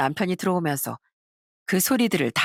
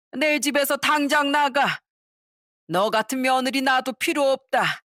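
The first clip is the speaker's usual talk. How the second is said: 호통치며 내쫓는 시할머니; 5 semitones higher, slower than usual. Acted.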